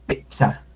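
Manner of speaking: Pizza chopped by a stop before sa; cut airflow. Shown as a demonstration. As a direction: hold the air in Pizza, then release sa. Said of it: "cortamos el aire para decir pizza".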